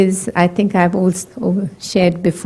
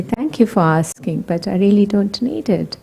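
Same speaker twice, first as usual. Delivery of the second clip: gently and kindly; 3 dB quieter than usual. Shown as a demonstration. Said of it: "just very gently, very kindly say".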